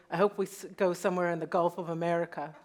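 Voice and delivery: imitating a dry, straight-faced joke; quick deadpan quote. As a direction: deliver the joke with no expression at all. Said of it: "just completely deadpan".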